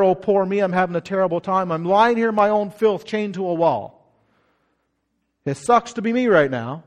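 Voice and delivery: low, whiny mock complaint; mock self-pity. Preacher mocks a grumbling prisoner, whiny. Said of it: "He didn't write in his letter".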